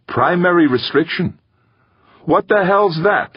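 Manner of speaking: very high, rising baffled question; incredulous. A narrator's reading. Gaeta echoing the computer's answer, incredulous. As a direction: throw it back in disbelief, pitch soaring.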